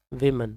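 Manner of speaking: women said as "vi-men"; short i opening women, "vi-men"; correct pronunciation. Shown as a demonstration. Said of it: "The right pronunci".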